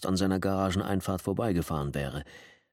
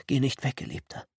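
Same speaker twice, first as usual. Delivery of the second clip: pleading with held-back tears; 6 semitones higher than usual. A narrator's reading. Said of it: "flehte sie und hörte bereits das Zittern unterdrückter Tränen".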